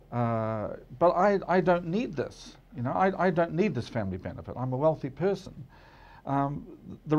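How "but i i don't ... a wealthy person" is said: higher, lightly voiced rich person protesting; quick half-acted protest from a wealthy person; mock wealthy objector. Imitating rich citizens refusing the benefit, mock protest. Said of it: "when people said".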